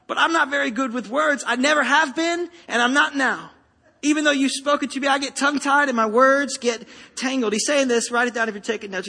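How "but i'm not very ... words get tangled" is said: mild pleading excuse. Retold or imitated. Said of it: "Moses pleaded with the Lord".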